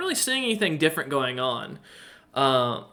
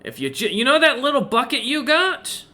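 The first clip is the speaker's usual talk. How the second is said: merchant voice; 8 semitones higher, 4 dB louder than usual. Acted. Merchant asks for bucket.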